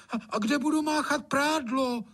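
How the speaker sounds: very high, startled outburst; Anče blurts out. Acted. Anče objecting about where she'll wash the laundry. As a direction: burst in with an indignant question. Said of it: "vyjela Anče".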